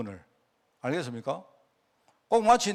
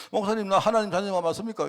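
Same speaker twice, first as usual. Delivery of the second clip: imitating tearful plea; 4 semitones higher, 4 dB louder than usual. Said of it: "막 울면서".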